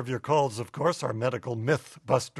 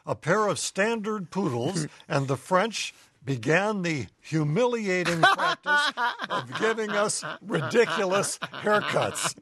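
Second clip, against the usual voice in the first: lightly voiced indignant poodle; poodle's letter; 3 semitones higher than usual. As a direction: read it as a proud dog writing in. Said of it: "Mo writes".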